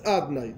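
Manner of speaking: "Adnai" squeezed into two syllables, middle O dropped; deliberate mispronunciation. Shown as a demonstration. Teacher telling students what is read for God's name, "Adnai" purposely altered. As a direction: say "Adnai" wrongly on purpose, skipping the O of Adonai. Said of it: "está mal dicho a propósito".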